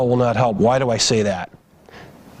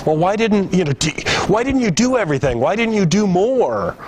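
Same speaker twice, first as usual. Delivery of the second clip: angry family member; 6 semitones higher than usual. Retold or imitated. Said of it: "they might be angry".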